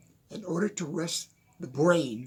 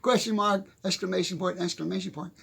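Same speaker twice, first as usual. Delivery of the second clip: mock frustrated outburst; 5 semitones higher, 4 dB louder than usual. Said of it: "hand on the desk and goes".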